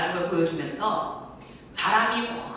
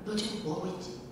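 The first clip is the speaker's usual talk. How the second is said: soft God's voice; 3 semitones lower, 8 dB quieter than usual. Retold or imitated. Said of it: "여호와께서 얘기를 한다면".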